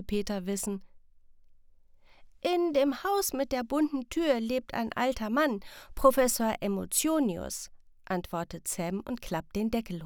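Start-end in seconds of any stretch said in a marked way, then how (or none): 2.4-7.7 a lightly voiced eager child, higher. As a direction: Sam telling parents about the old man, eager child.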